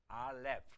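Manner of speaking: 알렙 ending in an F, lips not touching. Shown as a demonstration. Hebrew teacher models the first letter, 알렙 with F ending. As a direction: say 알렙 with a final F sound. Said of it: "알렙의 뒤가 F 발음이기 때문에 입술이 닿지 않습니다".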